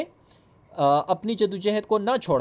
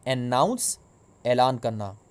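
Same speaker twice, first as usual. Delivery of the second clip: vocabulary drill. Shown as a demonstration. Teacher to students pronouncing new words, in a clear drill voice. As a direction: pronounce each word so the class can echo it. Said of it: "So pronounce with me".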